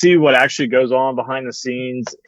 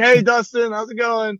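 high-pitched, starstruck greeting; imitating a nervous, high-voiced fan; tongue-tied fan; 10 semitones higher than usual. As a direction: squeeze out a nervous hello in a much higher voice. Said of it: "I can barely get words out of my mouth".

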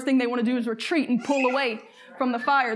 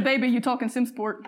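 laughing quote. Retold or imitated. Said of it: "He says".

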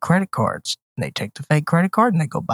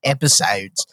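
lower, softer Philly-Baltimore vowel; Philly-Baltimore accent; 6 semitones lower, 4 dB quieter than usual. Shown as a demonstration. Host replaying his slip, low Philly-Baltimore accent. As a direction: echo the Baltimore-accented word. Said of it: "I had a weird".

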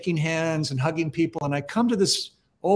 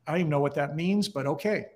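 quick, then softer and offhand; retold shrugging dismissal; 4 dB quieter, faster than usual. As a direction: toss it off like a passing thought. Acts out own dismissive thought.

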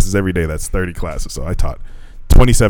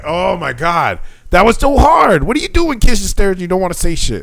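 high-pitched comic despair; exasperated complaint; 10 semitones higher than usual. Retold or imitated. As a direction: wail it in mock helplessness. Retold exasperation at silent class.

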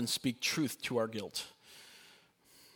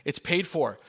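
emphatic declaration; 4 dB louder, slower than usual. Acted. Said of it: "he goes".

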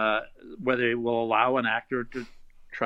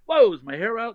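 a light Hades voice, a bit louder, higher from the start; 8 semitones higher, 5 dB louder than usual. Acted. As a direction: tosses off the famous line in his Hades voice for the kids. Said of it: "'cause they hear the voice".

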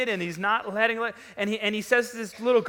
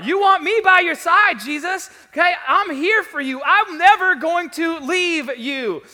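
loud, high-pitched vow of loyalty from Peter; impassioned protest; 8 semitones higher, 9 dB louder than usual. Acted. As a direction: protest at the top of your voice, acting out a devoted follower. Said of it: "one of the disciples that speaks up".

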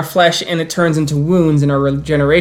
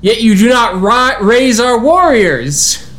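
higher, louder, furious accusation; angry outburst; 7 semitones higher, 4 dB louder than usual. Acted. Iron Howl interrupts the elders, shouting an angry accusation. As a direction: cut in and hurl the charge. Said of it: "you suddenly hear Iron Howl go".

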